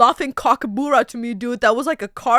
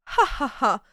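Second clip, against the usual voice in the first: rich laugh; 4 dB quieter than usual. Pretend. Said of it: "It's like the rich laugh".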